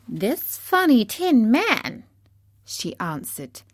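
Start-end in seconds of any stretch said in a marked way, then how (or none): 0.1-2.0 high, slow squeaky queen; mouse queen. A narrator's reading. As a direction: announce it in a high little regal voice. Narrator voices the mouse queen.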